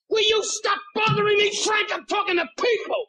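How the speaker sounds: whirl round and yell at the pest; shouting at Frank for interrupting; comic exasperated shout. Retold or imitated. Snapping at a pestering Frank.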